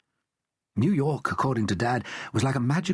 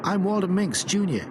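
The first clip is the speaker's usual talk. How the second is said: put-on American boy Walter; 9 semitones higher than usual. A narrator's reading. Walter voiced in story.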